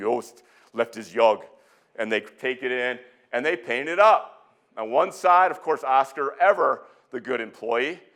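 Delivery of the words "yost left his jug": put-on Scandinavian-accented voice. Retelling what a man said on finding the jug, in a Scandinavian accent. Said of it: "He's got a Scandinavian accent".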